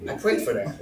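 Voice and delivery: low, hushed disbelief; acted quiet astonishment, almost to oneself; stunned. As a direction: say it softly, taken aback. Acting stunned at answered prayer.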